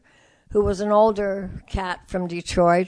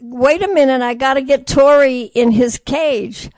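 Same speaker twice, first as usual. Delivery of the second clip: raised voice, a bit higher; calling out; 3 semitones higher, 6 dB louder than usual. Retold or imitated. Woman calls loudly to a friend waiting outside. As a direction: call loudly through the closed door.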